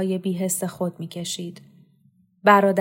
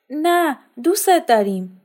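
urgent reassurance; 8 semitones higher, 6 dB louder than usual. Acted. Sara reassures the mother.

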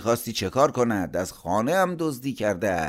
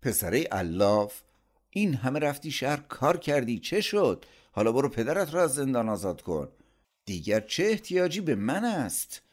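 high, scornful rant; angry scolding; 8 semitones higher than usual. A narrator's reading. Uncle berates sister and her idle son, angry. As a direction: berate them with pitch well up.

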